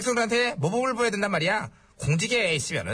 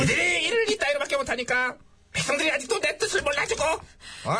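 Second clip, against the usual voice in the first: higher, scolding tirade; angry outburst; 4 semitones higher than usual. Acted. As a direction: vent your anger at incompetent underlings. Ruler blames subjects in fit.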